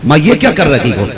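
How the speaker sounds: firmer, irritated protest; the patience is wearing thin; tone turned sharper. Shown as a demonstration. Son protests to his mother, sharper and irritated. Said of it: "देखो, लहजा बदल गया दो बार में".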